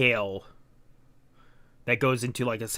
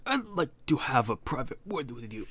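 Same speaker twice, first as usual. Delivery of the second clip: affected villain voice, softer; put-on character voice; 5 dB quieter than usual. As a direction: replay the villain's formal request, toned down. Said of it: "I keep doing this voice".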